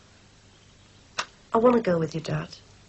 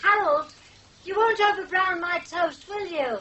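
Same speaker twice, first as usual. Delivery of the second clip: higher, slow, affected lady-of-the-house voice; odd put-on voice; 10 semitones higher than usual. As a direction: suddenly speak like a grand lady calling out. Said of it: "I don't know why I'm talking like this".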